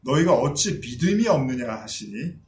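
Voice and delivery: measured solemn Bible reading; scripture reading. Acted. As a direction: read the passage aloud with gravity. Scripture reading opening sermon. (성경 본문 낭독)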